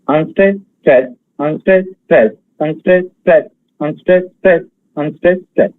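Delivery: steady beat alternating "unstressed, stress"; rhythmic pattern demo. Shown as a demonstration. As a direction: recite "unstressed, stress" in even pairs with tiny gaps. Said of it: "like this".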